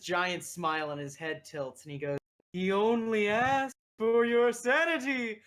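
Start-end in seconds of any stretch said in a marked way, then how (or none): 2.5-5.4 loud, high, cackling creature voice; mad creature. Acted. Creature names the price to an adventurer, loud mad cackle. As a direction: crow it out madly, breaking into a cackle.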